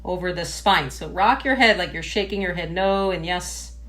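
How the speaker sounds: measured meditation-teacher voice with pauses; guided meditation. Real, not acted. Yoga teacher settling a class into sitting tall, guided meditation. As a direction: guide them gently through posture, phrase by phrase.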